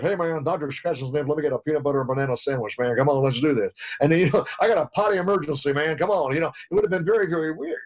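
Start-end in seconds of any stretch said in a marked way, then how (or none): 0.0-6.3 lightly voiced singer, cool and laid-back; impression of a famous singer. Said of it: "if Wacko was like".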